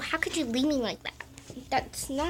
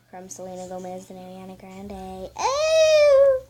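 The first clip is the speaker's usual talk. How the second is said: fake crying; 6 semitones lower than usual. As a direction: wail in mock despair. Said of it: "you can stop that now".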